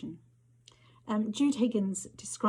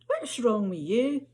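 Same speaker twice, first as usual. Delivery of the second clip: shout; 3 semitones higher, 6 dB louder than usual. Acted. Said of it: "Jennifer shouts over to her".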